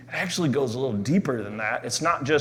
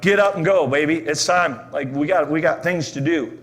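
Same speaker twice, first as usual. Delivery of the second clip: rousing call; 3 semitones higher than usual. Pretend.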